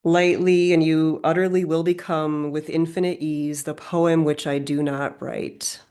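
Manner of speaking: measured recital in an even tone; poetry reading. Acted. Rereading favourite closing lines to listeners, measured poem recital. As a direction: let the verse flow on evenly.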